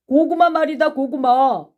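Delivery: high, loud insistence; heated shout, repeating the key word; shouted accusation. Acted. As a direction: hammer the word home. Blunt accusation in quarrel.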